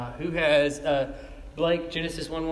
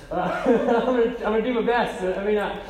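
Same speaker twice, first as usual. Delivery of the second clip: laughing; 4 semitones higher than usual. Real, not acted. Apologising for not knowing names.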